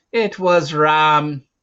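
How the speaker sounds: high, slow, loud glad shout; excited cry. A narrator's reading. Narrator as the dog reappears, excited cry. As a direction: ring it out in relief. Dog leaps to join him.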